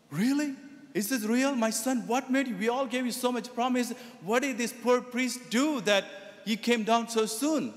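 high, amazed disbelief; astonished parents. Retold or imitated. Parents stunned that the son came down, high amazed voice.

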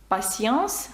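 slow French "Patience" with S for the T; French "Patience", S sound in the middle; T read as S. Shown as a demonstration. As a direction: say "Patience" slowly, T as S. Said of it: "Т також може передавати звук С".

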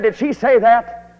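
a father stunned by what his son tells him; father's shocked question. Retold or imitated. Father hears gossip about him.

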